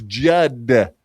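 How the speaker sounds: "Judd" drawn out, ending on a clear D; stressed final D. Shown as a demonstration. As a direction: correct the name slowly to "Judd". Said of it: "He keeps calling him Judge".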